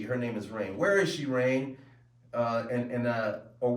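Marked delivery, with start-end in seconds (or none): 0.8-1.8 higher, louder acted demand; arguing father. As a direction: play a father pressing his daughter. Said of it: "we're having an argument".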